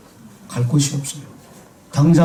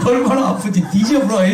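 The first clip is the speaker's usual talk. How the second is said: higher, laughing Jeolla dialect line; 6 semitones higher than usual. Retold or imitated. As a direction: laugh through it in Jeolla dialect, 얼마나 stretched out. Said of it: "경상도 말로 어떻게 해요?". (웃으며 전라도 사투리로)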